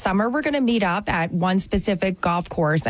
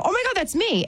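retold surprise; 12 semitones higher than usual. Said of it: "and I go".

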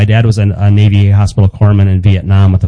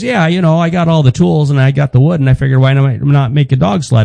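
higher, breezy dad voice; imitating dad; 4 semitones higher than usual. Son imitating his dad explaining the sled, higher and breezy. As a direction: shrug it off like it's obvious.

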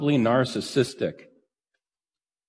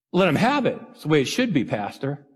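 smug church lady. Retold or imitated. The lady defends her scolding.

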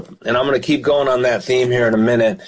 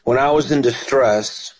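scripture reading. Acted. Preacher reading the psalm to radio listeners, solemnly. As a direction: read the verses with weight.

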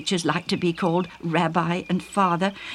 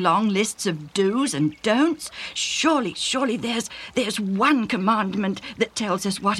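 great emotion. Acted. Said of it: "speaking with great emotion".

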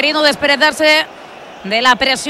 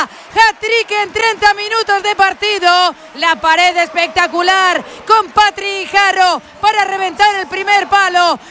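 excited goal commentary; 4 semitones higher than usual. Real, not acted. Commentator celebrates hat-trick goal.

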